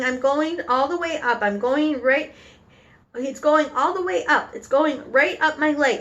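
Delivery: lightly acted panicky yelling; mild yell. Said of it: "the man was yelling".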